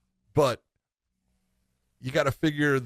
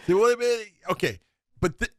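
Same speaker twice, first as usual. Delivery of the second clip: stuttering; 10 semitones higher, 4 dB louder, faster than usual. Real, not acted. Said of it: "Stop, stop stuttering, John".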